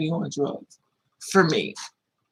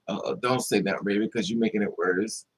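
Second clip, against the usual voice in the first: soothing aunt; 8 semitones lower, 3 dB quieter than usual. Retold or imitated. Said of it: "I was like".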